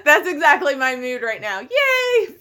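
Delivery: loud laughing mock yay; laughing cheer. Real, not acted. Laughing at four more shifts.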